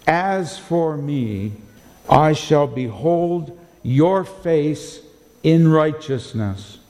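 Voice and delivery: slow, weighty reading of the verse; measured scripture reading; solemn scripture reading. Acted. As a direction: read it like holy writ, slowly. Reads the verse aloud slowly.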